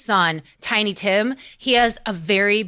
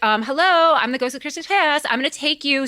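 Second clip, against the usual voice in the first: lightly voiced higher-pitched spirit; higher, mildly hammed-up announcement; Ghost of Christmas Past; 5 semitones higher than usual. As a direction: sing out a polite ghostly introduction. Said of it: "Ghost of Christmas Past is like".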